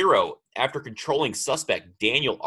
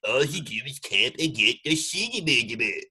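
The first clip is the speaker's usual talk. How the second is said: imitating raging gamer. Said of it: "He gets kinda ragey".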